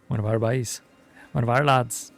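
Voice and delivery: a light imitation of a Scottish accent; loosely imitating the game's Scottish-sounding accent. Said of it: "I'm doing it in a Scottish way".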